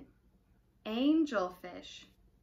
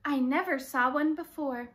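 eager and pitched up high on the first words; excited; 4 semitones higher than usual. Acted. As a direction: bubble over with eagerness. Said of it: "says Pete".

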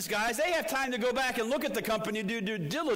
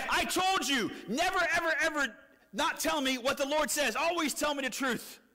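high-pitched, indignant scolding; mad; 6 semitones higher than usual. Acted. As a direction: act out an angry king telling off his prophet. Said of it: "And Ahab gets mad".

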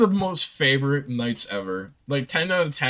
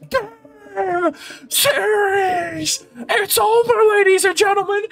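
much higher, loud game-ending announcer cry; sports announcer call; 6 dB louder, slower than usual. Retold or imitated. Friend behind him calling the moment, high announcer cry. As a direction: call it like the series just ended. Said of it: "someone literally behind me going".

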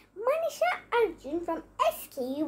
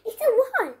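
louder, raised-pitch exclamation; crying out; 4 semitones higher, 5 dB louder than usual. A narrator's reading. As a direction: cry out the discovery in a story. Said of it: "he cried".

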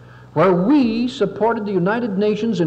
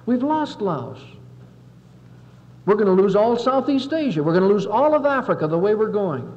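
indignant senator; 3 semitones higher than usual. Retold or imitated. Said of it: "He said".

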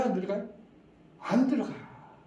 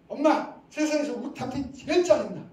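loud, higher fed-up yell at mom; angry child; 6 semitones higher, 6 dB louder than usual. Retold or imitated. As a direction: blurt it out like an upset kid. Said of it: "어머니라면 어떻게 하시겠어요?".

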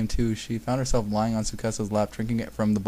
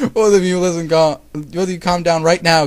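loud, raised-pitch command; stern shouted telling-off; strict yell; 6 semitones higher, 9 dB louder than usual. A narrator's reading. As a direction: order them firmly at full voice. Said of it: "Konata yelled strictly".

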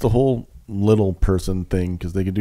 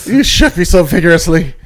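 troll voice; 5 semitones higher, 4 dB louder than usual. Pretend. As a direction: complain like a shaken troll. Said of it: "I am the weed troll".

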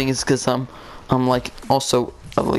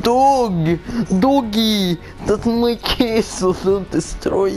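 calling out; 8 semitones higher, slower than usual. Real, not acted. Calling out to the dog.

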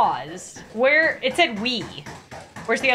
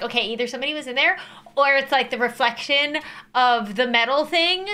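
fast rational inner voice. Retold or imitated. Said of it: "the logical part of my brain is like".

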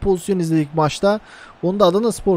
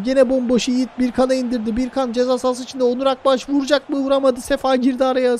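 excited; 6 semitones higher than usual. Real, not acted. Attack in the box, commentary.

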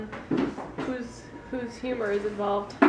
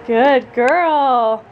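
excited praise; 5 semitones higher, 4 dB louder, slower than usual. Real, not acted. Praising baby, high and loud.

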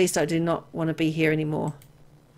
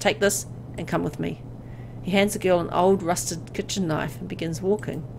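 story narration. A narrator's reading. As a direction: draw the listener into the dread. Reads the horror story text.

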